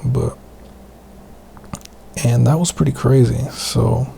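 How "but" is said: real whisper, trying to keep it down; whispering an aside. Real, not acted. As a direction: drop to a breathy whisper. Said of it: "I'm trying to whisper right now".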